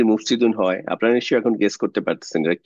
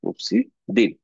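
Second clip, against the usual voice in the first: slow মুফসিদিন, broken before the ending; drawn-out answer; much slower than usual. Shown as a demonstration. Teacher giving learners the next form, drawn out. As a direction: separate the last syllable of মুফসিদিন and let it fall.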